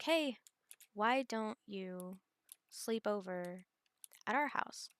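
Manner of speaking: lightly voiced friends, drawing the offer out slowly; friendly invitation. Friends inviting her to sleep over.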